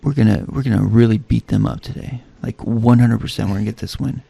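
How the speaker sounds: deadpan pep talk at normal volume; rally the team with no feeling at all; no emotion. Shown as a demonstration. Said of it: "No emotion whatsoever".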